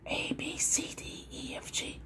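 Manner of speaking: soft whispered letters. Shown as a demonstration. Examiner testing the viewer's hearing with letters, whispered. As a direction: whisper the alphabet slowly and quietly.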